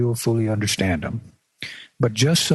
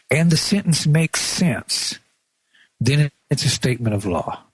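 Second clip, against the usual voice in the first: whisper; 3 semitones higher than usual. Real, not acted. Aside while explaining a test.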